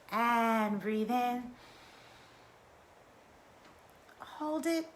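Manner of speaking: slow breathing guide, drawn-out cues; guided breathing. Acted. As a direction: lead the group through each breath. Leads a breathing exercise.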